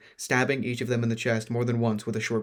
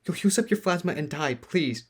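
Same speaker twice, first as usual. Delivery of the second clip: pleading; 6 semitones higher than usual. Acted. Pleading friend.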